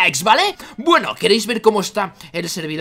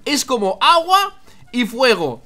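slow, deliberate emphasis; scandito; 2 semitones higher, slower than usual. Real, not acted. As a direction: present it slowly, word by word. Presents the odd sight.

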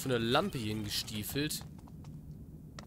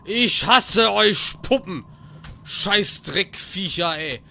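loud, higher panicked yell; scared shout; 7 semitones higher, 16 dB louder, much slower than usual. Real, not acted. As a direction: scream at the dolls after a fright. Jump scare by puppets. (lauter, panischer Schrei)

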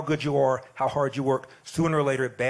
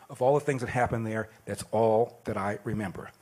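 poem recitation; 2 semitones lower than usual. Acted. Reading the poem he studied in class, measured recital.

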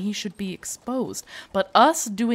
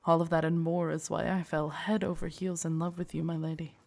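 tender confession; 3 dB quieter than usual. Acted. Guard confessing love, then regret.

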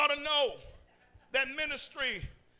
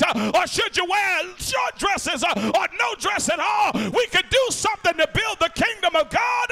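preaching at full force; 3 semitones higher than usual. Acted. Pastor rebuking a quarreling church, preaching at full force. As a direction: keep building the sermon until it rings.

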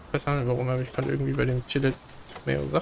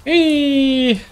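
sudden shout; 10 semitones higher, 7 dB louder than usual. Real, not acted.

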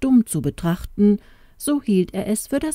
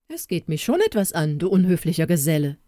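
raised voice; faster than usual. Acted. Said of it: "mit erhobener Stimme".

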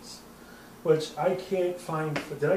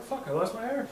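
higher, mock-panicked Irish slipping to Scottish; fading Irish into Scottish; 7 semitones higher, 4 dB louder than usual. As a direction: lose the Irish mid-sentence. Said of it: "I try to do it".

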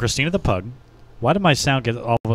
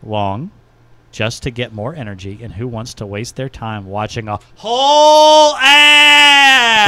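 mock outraged review; 6 dB louder, slower than usual. Host reads pug's review about ads in mock outrage. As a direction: read it like an angry all-caps rant. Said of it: "all caps again".

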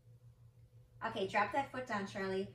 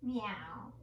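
cat meow. Shown as a demonstration. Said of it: "Do it with me".

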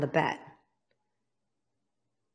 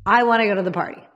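put-on insistent teen voice; faster than usual. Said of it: "'cause I'm an idiot".

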